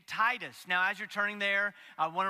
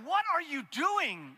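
wife's text; 8 semitones higher, slower than usual. Retold or imitated. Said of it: "I get a text from Abby's like".

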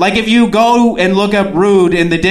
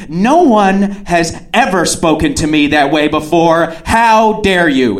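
mock outrage. Acting offended woman at full voice.

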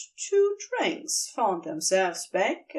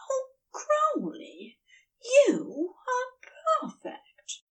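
Aziraphale, overcome; 14 semitones higher, slower than usual. A narrator's reading. Aziraphale, overcome, praises Crowley, slow and high.

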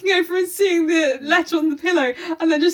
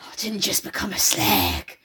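Cat Slater impression; 4 semitones lower, slower than usual. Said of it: "my favourite line from Cat Slater".

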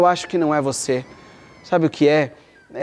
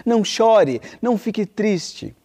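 King Triton; 4 semitones lower than usual. Acted. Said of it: "ele disse".

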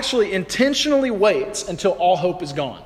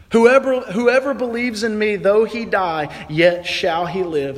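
proclaiming; 4 semitones higher than usual. Acted. Jesus proclaims resurrection.

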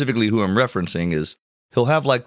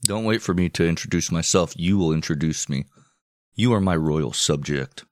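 Alexander; 4 semitones lower than usual. Acted. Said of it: "I imagine this is how Alexander was".

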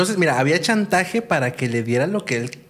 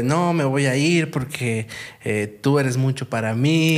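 typical breakup line; slower than usual. Retold or imitated. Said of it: "la típica de".

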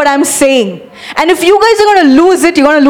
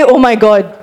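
amazed oh my god; 6 semitones lower than usual. Shown as a demonstration. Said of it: "Say it like you say".

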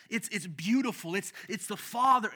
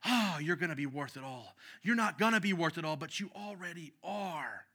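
tender voice of God. Acted. God's voice to his creation.

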